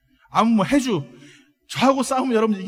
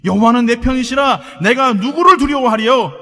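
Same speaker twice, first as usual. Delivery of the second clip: loud, slow, raised confession of faith; bold, ringing declaration; David; 4 semitones higher, 10 dB louder, slower than usual. Acted. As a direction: proclaim the psalm at full force. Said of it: "고백하며 얘기하는 거예요".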